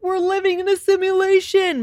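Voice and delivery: high-pitched, amazed exclamation; freaking out. Retold or imitated. Wife freaking out over their wedding song being played, high and amazed. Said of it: "freaking out".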